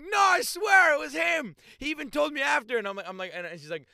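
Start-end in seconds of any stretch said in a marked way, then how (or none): 0.0-2.8 mock pleading sister. Sister pleading her innocence to mom, hammed-up high whine. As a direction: whine it like a caught teenager.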